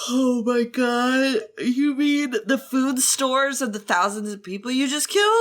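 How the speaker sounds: rising, incredulous outburst; stretched oh-my-god, climbing to a high question; mock shock. Host reacting to the villain's deeds, mock shock.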